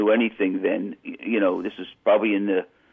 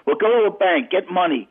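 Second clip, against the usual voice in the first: mock yelling; 7 semitones higher than usual. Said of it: "he's screaming and yelling".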